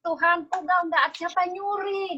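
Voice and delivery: Mary Magdalene weeping at the empty tomb, distraught. A narrator's reading. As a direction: wail it like a grieving woman at the tomb. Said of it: "gitu ya, nangis-nangis ya".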